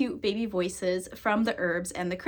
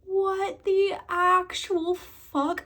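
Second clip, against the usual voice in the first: stunned; 9 semitones higher, much slower than usual. Retold or imitated. Stunned by herb speaking.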